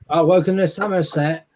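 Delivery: lightly put-on Somerset accent. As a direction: greet like a Somerset local, West Country vowels. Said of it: "if you go to Somerset".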